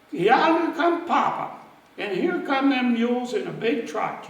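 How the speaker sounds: excited shout. Retold or imitated. Children in the yard spotting Papa, excited call. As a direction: call out as the wagon comes into view. Kids run out seeing Papa.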